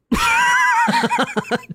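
high whooping laughter; real burst of high laughter. Real, not acted. Laughs after teasing Jen.

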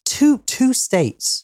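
"Two" stretched slow and high; stress on two. Shown as a demonstration. Slow emphatic repetition.

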